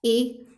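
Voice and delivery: 'ए' said alone as a short a sound; vowel demo. Shown as a demonstration. Teacher recalling the first example's short a vowel. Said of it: "उसमें कैसे pronounce किया?".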